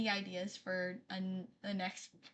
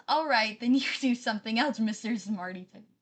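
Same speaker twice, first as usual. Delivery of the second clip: mock sassy retort, louder, with a laugh; reading chat sassy; 6 dB louder than usual. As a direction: read out the chat jab like a cheeky friend. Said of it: "Raven says".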